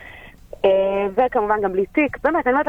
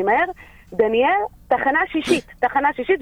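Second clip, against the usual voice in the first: urgent call; 7 semitones higher than usual. Retold or imitated. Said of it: "והיא אומרת לי".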